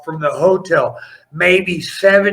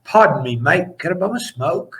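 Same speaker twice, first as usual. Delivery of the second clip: put-on Australian accent. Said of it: "you talk better English than I do".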